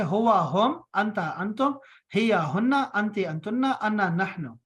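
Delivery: rhythmic rote recital of pairs; drill recitation. Shown as a demonstration. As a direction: chant them as a memory drill. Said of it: "चालीस मरतबा इसको आपने ऐसे पढ़ना है".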